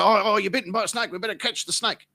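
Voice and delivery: high, loud mimicry of a flustered bystander; mock panic. People reacting to a mate's snakebite, mock panic. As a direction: imitate people fussing over a snakebite.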